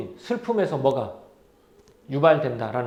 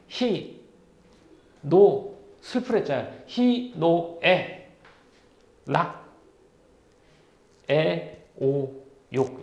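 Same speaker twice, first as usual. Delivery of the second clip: slow enumeration; much slower than usual. Shown as a demonstration. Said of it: "다시 한번 설명해 줄까?".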